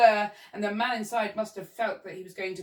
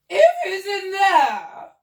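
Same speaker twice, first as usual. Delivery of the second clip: high, loud, slow wail; shrill cry; 11 semitones higher, 12 dB louder, much slower than usual. Acted. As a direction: wail it at the bird. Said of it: "cried the Duchess".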